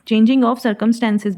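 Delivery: slow, word by word; slow dictation pace. Shown as a demonstration. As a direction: read the meaning slowly. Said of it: "slow definition".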